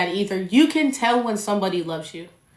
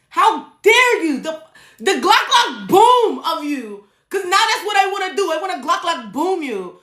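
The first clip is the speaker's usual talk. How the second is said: mock outrage; 9 semitones higher, 4 dB louder than usual. Podcaster joking she wants revenge on an ex, mock outraged. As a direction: ham up the outrage at the ex, half laughing.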